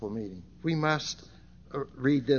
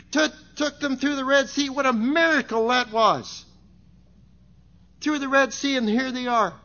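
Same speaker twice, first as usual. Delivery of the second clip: raised, driving sermon delivery; impassioned preaching; 10 semitones higher, 9 dB louder than usual. Real, not acted. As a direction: preach the story with fervor. Preaches the Exodus story.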